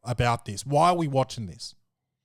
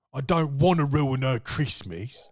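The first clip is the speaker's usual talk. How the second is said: a hint of a British accent, kept level; light British accent. The cop refusing his partner, in a light British accent. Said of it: "He's like".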